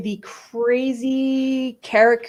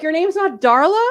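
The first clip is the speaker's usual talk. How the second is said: mock surprise; 5 semitones higher than usual. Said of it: "they're like".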